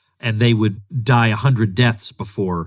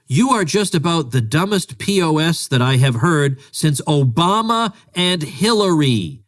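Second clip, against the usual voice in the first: mock all caps; 5 semitones higher, slower than usual. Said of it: "Obama and Hillary are in all caps".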